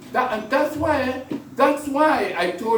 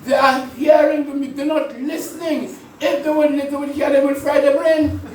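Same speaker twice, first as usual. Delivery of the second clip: emphatic preaching; 4 semitones higher, 4 dB louder than usual. Real, not acted. Preacher driving home his point.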